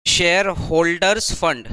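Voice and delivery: slow, spelled-out dictation. Shown as a demonstration. Teacher dictating the heading to students, slowly. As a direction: say it slowly so the class can write. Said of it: "तो इसको लिखे ए number".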